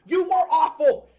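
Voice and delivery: loud, laughing through the insult; can't help laughing as you say it; laughing jab. Real, not acted. Fan mocking Strus with a laugh, loud and amused.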